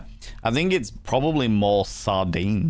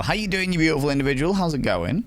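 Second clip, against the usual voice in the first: much higher, sing-song hello; high cheery greeting; 7 semitones higher than usual. Acted. Streamer greets a new follower in a high cheery voice. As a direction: greet them like a delighted aunt. Greeting chatter Monkey Mel.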